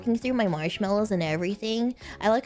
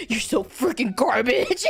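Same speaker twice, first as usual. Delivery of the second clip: laughing mock insult. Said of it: "They're like".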